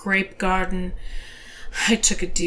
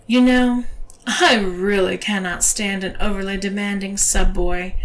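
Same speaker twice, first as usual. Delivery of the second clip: louder stern scolding; 3 dB louder than usual. Acted. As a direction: scold him firmly. Scolding mistress.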